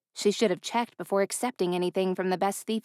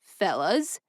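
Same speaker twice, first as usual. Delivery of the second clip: calm. A narrator's reading. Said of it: "he called out in a calm tone".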